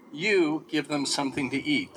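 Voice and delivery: "you" leaned on, then falling to the end; emphatic "you", commanding tone; stress on you. Shown as a demonstration. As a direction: hit "you" firmly as a command. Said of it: "emphasis on the Greek on you".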